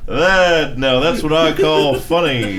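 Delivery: high, loud laughing reply; laughing hard. Real, not acted. Laughing at her friend's French bit, cracking up. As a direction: crack up at the joke.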